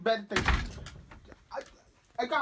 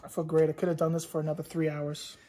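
lower, cocky gangster boast; old-time gangster; 4 semitones lower, 5 dB louder than usual. Acted. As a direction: brag like a mobster. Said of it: "still talking in that gangster voice".

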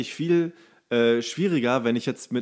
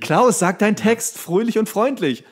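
mock director call; 6 semitones higher, 4 dB louder than usual. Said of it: "dann stehst du da und sagst".

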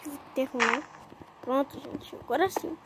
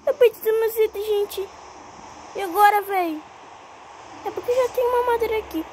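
dismayed wail; 5 semitones higher than usual. Real, not acted. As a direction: cry out at losing everything. Perde os itens e morre. (lamento alto e desesperado)

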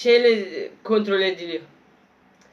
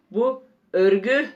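toy robot voice. Pretend. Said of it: "Ben niye robot gibi konuşuyorum".

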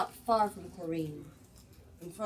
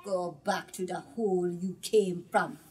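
louder, growing fierce refusal; defiant witch; 5 dB louder than usual. Acted. The witch driving off the Jumbi, fierce and louder. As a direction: send the Jumbi away with scorn.

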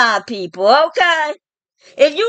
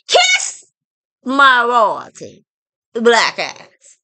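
squealed taunt; slower than usual. Real, not acted. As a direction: squeal Kiss, then drag the rest. Repeated taunt, kiss squealed high.

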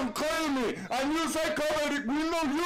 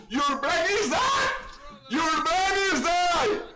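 loud, raised insult hurled twice; angry shout; 3 semitones higher, 4 dB louder than usual. Real, not acted. Player berating his teammate over voice chat, angry shout. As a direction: yell it at the useless teammate.

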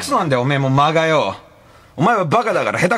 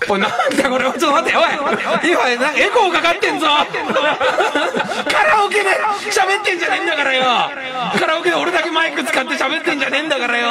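echo; 6 semitones higher, faster than usual. Real, not acted. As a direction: voice with a karaoke echo on the mic.

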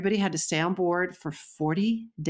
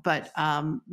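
normal talking voice

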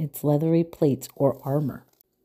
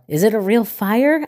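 screamed; 5 semitones higher, 4 dB louder than usual. A narrator's reading. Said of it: "Alligator screamed".

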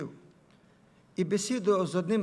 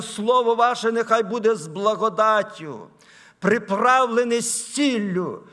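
raised, emphatic pulpit delivery; ringing scripture proclamation; preach; 6 semitones higher, 7 dB louder than usual. Acted. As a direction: preach the apostle's words out to the hall.

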